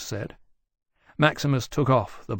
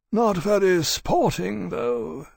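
Gentius; 8 semitones higher, slower than usual. A narrator's reading. Gentius voiced, old dragon.

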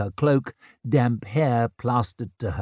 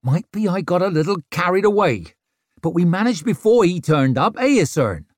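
sheepish; 8 semitones higher, 5 dB louder than usual. Acted. Rikke sheepish, fast.

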